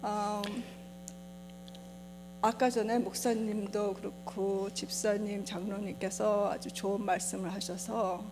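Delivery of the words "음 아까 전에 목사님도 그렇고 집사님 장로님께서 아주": Korean American accent, careful and unhurried. Real, not acted. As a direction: Korean spoken as a second language by a Korean American. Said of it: "제가 한국말을 잘, 잘 못해서".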